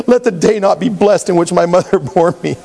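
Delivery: reading the curse while chuckling; can't keep a straight face on it; laughing through the verse. Real, not acted. Laughing while quoting Jeremiah.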